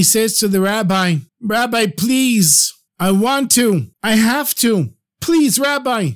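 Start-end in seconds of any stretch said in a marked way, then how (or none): 1.4-4.9 high, slow tearful pleading; desperate plea to the rabbi, close to sobbing; tearful begging. Acted. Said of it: "And he cried". 5.2-6.1 much higher, pleading cry; desperate plea; tearful begging. Acted. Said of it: "And he cried".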